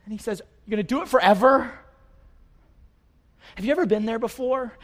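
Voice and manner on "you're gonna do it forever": crying out to God. Acted. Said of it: "he's just crying out to God".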